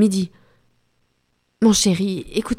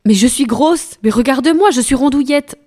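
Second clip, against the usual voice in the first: indignant disbelief; 5 semitones higher, 5 dB louder than usual. Acted. Indignant protest at being called thin.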